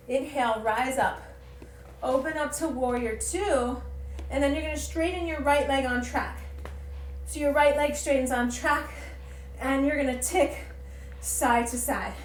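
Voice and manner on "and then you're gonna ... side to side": breathless from the flow, puffing; out of breath. Real, not acted. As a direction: talk while winded mid-pose. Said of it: "I'm trying to catch my breath".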